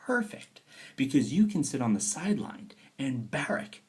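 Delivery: high, breathy scheming whisper; gleeful whisper. Retold or imitated. Lenin gloating over the provisional government's troubles, whispered. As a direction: whisper it like a plotter rubbing his hands. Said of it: "If you're Lenin".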